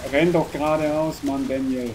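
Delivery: loud frustrated urging; yelling at character. Real, not acted. Player shouting at his own character to run.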